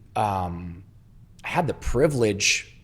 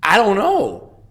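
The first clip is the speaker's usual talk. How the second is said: scared; 10 semitones higher, 8 dB louder, slower than usual. Retold or imitated. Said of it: "I'm, like, shaking".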